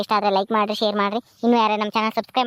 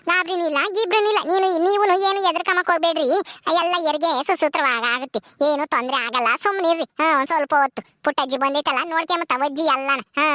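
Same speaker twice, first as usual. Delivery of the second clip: higher, brisk village woman brushing off worry; 5 semitones higher than usual. Acted. Gauri telling her worried husband not to fuss, lively. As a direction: shrug off his panic, lively and sure.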